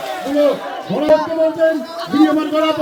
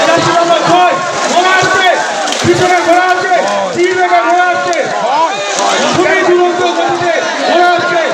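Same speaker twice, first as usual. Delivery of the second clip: race caller; 3 semitones higher than usual. Real, not acted. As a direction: lively race call over the loudspeaker. Live race calling.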